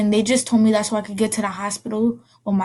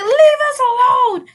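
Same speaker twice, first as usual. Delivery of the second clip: put-on high, slow childlike demand; little girl voice; 5 dB louder, slower than usual. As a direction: tell them off as a tiny child. Child to cops.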